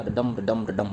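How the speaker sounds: three low beats of "डडम", stressing each "डम"; three iambic feet. Shown as a demonstration. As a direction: chant "डडम" with the weight on "डम". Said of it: "three feet है तो ट्राईमीटर हो गया".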